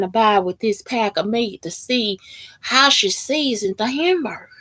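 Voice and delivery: lightly hammed-up heartbroken husband; oversharing lonely stranger. Texan stranger tells how wife left, mock lament. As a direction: imitate a stranger pouring out woes. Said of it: "They'll be in that mind".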